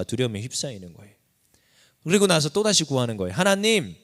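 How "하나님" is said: crying out to God. Acted. David's renewed plea voiced.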